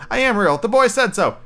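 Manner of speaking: high-pitched little rabbit protest, a touch upset; nearly crying. A narrator's reading. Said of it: "nearly began to cry".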